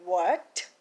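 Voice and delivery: slow, questioning mock alarm; understated incredulous question; mild disbelief. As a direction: stretch it out in retold disbelief. Retold shock at the word clamping.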